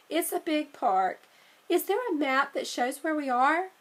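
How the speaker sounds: a hint of a bright little girl, a bit quick; lightly voiced Annie. Sister suggesting they ask New Yorkers, lightly girlish. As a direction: nudge the pitch up for the sister.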